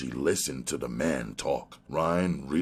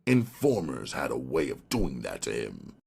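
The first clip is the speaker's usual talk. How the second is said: ordinary delivery, nothing marked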